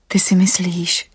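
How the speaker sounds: Anastasia's whispered challenge. Acted.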